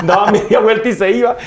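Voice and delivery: high burst of laughter, then words laughed out; laughing. Real, not acted. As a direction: crack up at the memory. Laughing at mother's retort.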